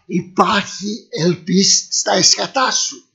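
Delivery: slow repeat with weight on "εσχατά"; slow solemn repeat. Shown as a demonstration. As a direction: lean on "εσχατά" and drag it out.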